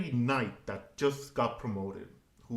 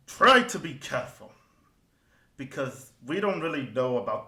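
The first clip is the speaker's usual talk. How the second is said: quick, then louder warning; hurried dwarf; 3 dB louder than usual. Acted. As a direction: rush off but warn him kindly. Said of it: "and goes".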